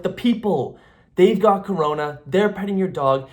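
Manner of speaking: a paranoid friend sounding the alarm; mock panic.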